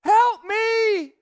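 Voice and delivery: put-on high, loud desperate kid's cry for help; child pleading. Young son begging daddy to help clean the mess, desperate. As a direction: beg your dad for help like an overwhelmed child. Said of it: "He said".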